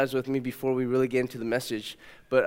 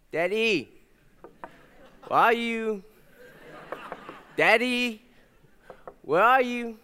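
put-on toddler at the door; 7 semitones higher, slower than usual. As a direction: ask gently like a small child at a closed door.

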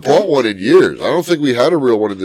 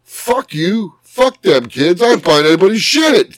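mock outburst; 6 semitones higher than usual. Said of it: "I'm like".

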